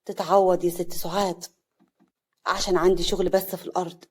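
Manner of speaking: polite, easy decline; smiling. Acted. Guest declining the hostess's lunch invitation, smiling. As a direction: smile while excusing himself. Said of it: "صالح بابتسامة".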